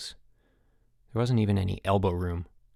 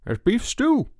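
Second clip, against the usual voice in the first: mouth full; 13 semitones higher, 4 dB louder, slower than usual. A narrator's reading. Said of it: "mumbled Chip, his mouth full".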